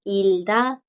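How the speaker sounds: "ilda" with the G silent; teacher's example "ilda", no G; blocked G. Shown as a demonstration. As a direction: move from L straight to D in "ilda". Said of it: "la que sigue la bloquea".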